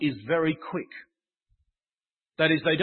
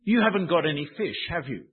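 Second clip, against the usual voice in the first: expecting the answer no, with a dropping tag; a knowing negative tag question called from the shore. Shown as a demonstration. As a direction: tease them, you already know they caught nothing. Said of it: "the tone of the question is negative".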